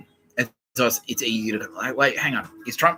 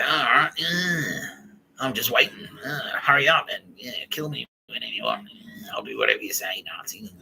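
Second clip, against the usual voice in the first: mock whining surrender; 3 semitones higher than usual. Voicing people who just sit there waiting, mock whining surrender. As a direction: whine it out like a hammed-up pushover. Mockingly voicing passive, compliant victims.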